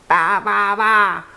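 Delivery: repeated sheep baas; sheep bleating. A narrator's reading. Hen pretends to be a sheep, bleating. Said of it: "said the fat red hen".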